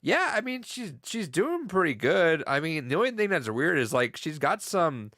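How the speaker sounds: upbeat doctor reporting to Hank; doctor quote. Retold or imitated. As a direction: lightly play the upbeat doctor. Doctor voiced in retold scene.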